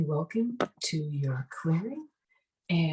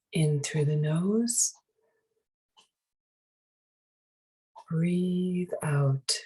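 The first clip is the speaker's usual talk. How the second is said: guided meditation. Acted. Meditation leader guiding listeners to breathe and release tension, guided meditation. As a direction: guide them gently through each breath, unhurried.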